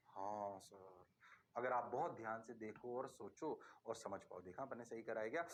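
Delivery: low, soft mock student answer; student reply. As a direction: play a meek student saying yes sir. Teacher voices students.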